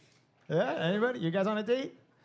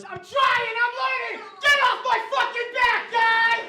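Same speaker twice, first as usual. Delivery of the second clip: very high, loud mock yell; over-big signing shout; 7 dB louder than usual. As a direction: shout it like huge angry signs. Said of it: "how big you do your signs".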